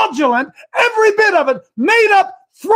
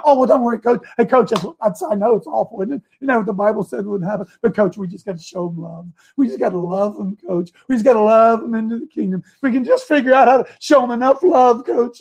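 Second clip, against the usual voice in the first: mock pastor; 4 semitones lower, faster than usual. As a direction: soothe him like a smug pastor. Pastor voiced, placating coach.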